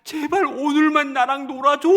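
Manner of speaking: high, loud tearful begging; father retelling his daughter's wailing plea; imitated wailing plea. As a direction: plead through imitated sobs. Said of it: "통곡해서 울면서".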